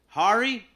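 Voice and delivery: high, loud "Harry?" guessing; wrong name guess. Retold or imitated. Confused stranger guessing Harry, high and loud.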